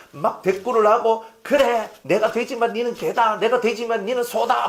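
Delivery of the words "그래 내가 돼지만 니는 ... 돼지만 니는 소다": high-pitched mock-angry retort; flaring up. Pastor acts retorting to someone who teases him, heatedly. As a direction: hit back with acted indignation. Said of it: "불끈거리면서 이 속에서 뭐가 팍팍 올라와가지고".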